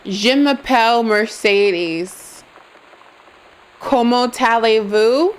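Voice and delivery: demonstrative French accent, phrase by phrase. Shown as a demonstration. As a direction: show off a schoolroom French accent. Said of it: "how accurate my French accent is".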